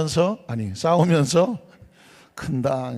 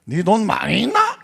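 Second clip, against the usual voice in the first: Gangwon dialect; 6 semitones higher, 5 dB louder than usual. Retold or imitated. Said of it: "강원도 사람인 줄".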